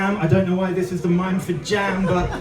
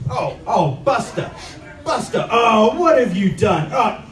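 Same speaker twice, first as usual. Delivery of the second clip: mock scolding the pet; 3 semitones higher than usual. Blaming the pet rabbit.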